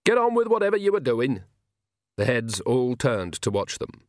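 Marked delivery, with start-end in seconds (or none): 0.1-1.4 high, sharp order; sharp, high-pitched instruction. A narrator's reading. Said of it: "she said sharply".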